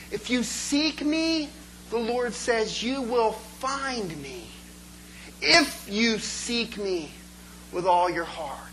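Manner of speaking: slow, weighty reading of the verse; slow scripture quote. Acted. Preacher quoting Jeremiah to the congregation, slow and solemn. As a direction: let each word of the promise land. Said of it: "Jeremiah twenty-nine says this".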